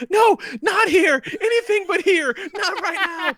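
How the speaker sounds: high, slow, laughing plea; hammed-up desperate begging; mock pleading. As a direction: beg like she sees the grave. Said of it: "her tone changed immediately".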